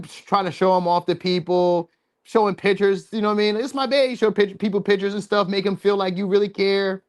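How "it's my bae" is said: mock bragging lover. Mimicking a show-off partner.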